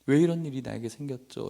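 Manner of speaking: acted aggrieved prayer to God; understated tearful plea, no sobbing; pleading, near tears. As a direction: question God in mild anguish. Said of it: "라고 막 울기 시작하는데".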